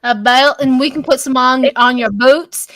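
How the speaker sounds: playful Texan twang; Texan accent. Pretend. Spinning Texan outfit ideas with friends, Southern accent. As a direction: keep up the folksy Texan accent. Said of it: "we all can go Texan".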